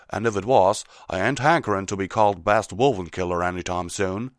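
loud country pony voice; folksy, forceful refusal; Applejack. Acted. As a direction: push back firmly in folksy speech. Applejack's character voice.

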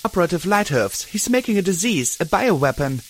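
shouting. Acted. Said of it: "Glory shouted back".

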